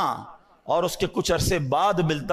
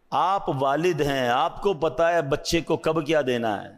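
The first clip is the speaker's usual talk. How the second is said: ordinary delivery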